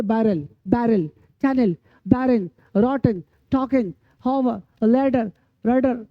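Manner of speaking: word-list demo, unstressed "a" ending as in पोस्टर. Shown as a demonstration. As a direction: say the E in बैरल and टॉकन as a short "a". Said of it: "आ पढ़ेंगे".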